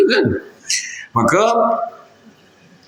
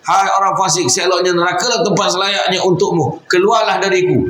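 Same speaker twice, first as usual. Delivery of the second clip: stern rebuke; 5 semitones higher than usual. Acted. Prophet rebukes the youth.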